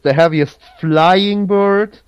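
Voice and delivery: brisk recap of a quiz option. Real, not acted. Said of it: "a little bit faster".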